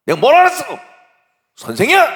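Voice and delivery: high, very loud outburst; angry yelling. Acted. Principal dresses down an angry teacher, yelling. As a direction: explode in indignant shouting.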